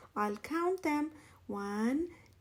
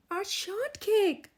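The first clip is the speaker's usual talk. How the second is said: high, loud, slow wail over the lost cake; dismayed cry; 8 semitones higher, 6 dB louder, slower than usual. A narrator's reading. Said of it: "Iguana cried".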